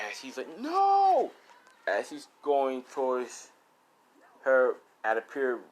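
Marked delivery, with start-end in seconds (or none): 0.6-1.3 long, very high loud scream; drawn-out anguished yell. Acted. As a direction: wail it out as the friend dies. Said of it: "Zuko scream out".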